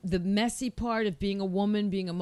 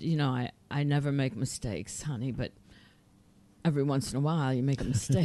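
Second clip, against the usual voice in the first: Lucian; 6 semitones lower than usual. Retold or imitated. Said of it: "and Lucian said".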